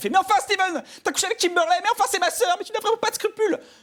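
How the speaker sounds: put-on tearful actress voice. Mimicking a girl in an american film scene, fake crying actress voice. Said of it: "la fille pleure".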